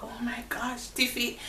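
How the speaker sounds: whispered gasp of sympathy; shocked whisper. Retold or imitated. Coworker Jody whispering her shock to Tiffy. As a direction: breathe it out in disbelief.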